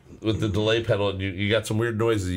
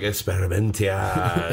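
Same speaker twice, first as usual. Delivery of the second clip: bad Spanglish; 2 semitones lower, slower than usual. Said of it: "like bad Spanglish versions".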